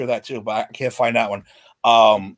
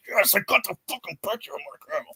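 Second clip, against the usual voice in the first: gleeful; 6 semitones higher, 8 dB quieter than usual. Retold or imitated. Gloating over the photo.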